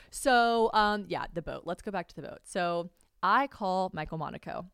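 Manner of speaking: normal talking voice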